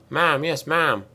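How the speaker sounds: keen barked military reply; enthusiastic bark. Acted. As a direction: bark it back eagerly. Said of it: "Littlefield barked back enthusiastically".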